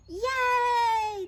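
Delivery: loud, high hurrah; cheering. A narrator's reading. Crowd agrees fuzz is trouble, cheering. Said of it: "the crowd cheered".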